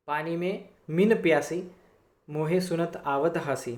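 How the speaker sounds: unhurried, measured poem reading; slow verse recitation. Acted. Teacher quoting Kabir to the class, slow and measured. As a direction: let the line hang between phrases.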